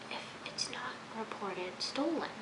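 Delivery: incredulous whisper; a voiceless, baffled question. Real, not acted. Questioning the traffic stop.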